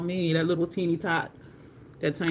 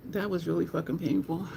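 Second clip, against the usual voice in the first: close to tears; 5 dB quieter than usual. Real, not acted. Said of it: "I still feel like I wanna cry".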